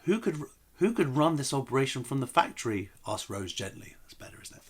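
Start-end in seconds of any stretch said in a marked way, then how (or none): 0.0-2.9 more gentle. Acted. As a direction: ask it tenderly, carefully. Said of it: "Let's try it more gentle than that".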